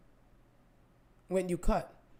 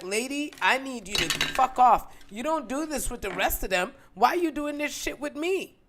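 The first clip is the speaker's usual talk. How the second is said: resentful inner rant; 3 semitones higher, 4 dB louder than usual. Retold or imitated. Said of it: "I just thought".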